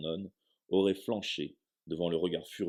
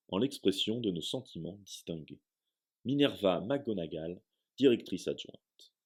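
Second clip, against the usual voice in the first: formal letter. Acted. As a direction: read it like an official document.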